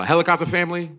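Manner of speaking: imitating J B Smoove, high and unhurried; slow J B Smoove pitch. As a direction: take your time selling a silly idea. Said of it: "he would just slow it down and go".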